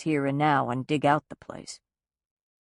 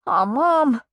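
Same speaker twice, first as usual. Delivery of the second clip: a high, crushed aw; devastated; 8 semitones higher, 5 dB louder than usual. Acted. Son realizes mother is leaving, devastated. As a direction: let the heart sink on it. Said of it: "he said, devastated".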